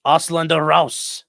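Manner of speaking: loud, drawn-out mock command; mock German shout. Streamer playing along with viewers, mock shout. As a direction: call it out slowly and loudly.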